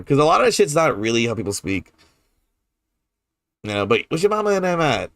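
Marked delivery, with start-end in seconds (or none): 4.1-5.1 New Orleans greeting. Shown as a demonstration. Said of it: "this is something that we say".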